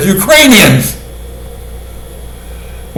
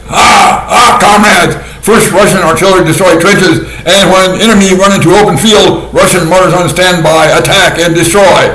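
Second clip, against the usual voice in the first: mock heavy Russian accent, lightly done; a hint of a Russian announcer's accent. Imitating the Russian voiceover in a light Russian accent. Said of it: "with a heavy Russian accent".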